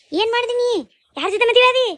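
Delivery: high, shocked scolding of a daughter; stunned mother confronting her daughter; shocked demand. Acted.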